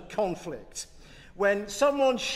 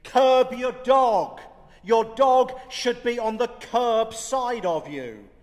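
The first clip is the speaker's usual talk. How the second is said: stern order; 4 semitones higher, 7 dB louder than usual. Retold or imitated. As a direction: bark the order at a stranger. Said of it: "the owner of the lawn ordered me".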